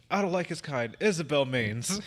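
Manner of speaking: imitating a quote with a slow, pointed pause after "kind"; comic deliberate pause. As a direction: hold a comic beat after "kind", then stretch out "Isabel Maines". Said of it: "The pause he took was so comically".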